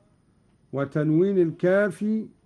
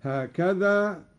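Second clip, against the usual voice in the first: normal talking voice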